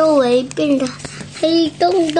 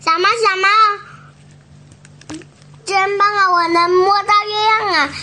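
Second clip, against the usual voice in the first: much higher, thrilled little chick; excited; 6 semitones higher, much faster than usual. Acted. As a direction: squeal with delight at the moon. Chick thrilled to reach moon.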